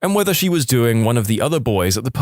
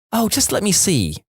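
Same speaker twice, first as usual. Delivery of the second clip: coaxing mum, higher; 9 semitones higher than usual. Retold or imitated. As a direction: coax lightly like a mum. Mum voiced.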